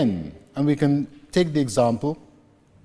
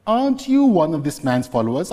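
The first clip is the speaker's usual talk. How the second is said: louder accusation; 2 semitones higher, 5 dB louder than usual. Acted. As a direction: challenge him, voice raised. Servant accuses Peter.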